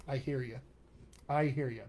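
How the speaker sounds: soft, low reassurance; sympathetic. Real, not acted. Coach to student who hates their accent, sympathetic.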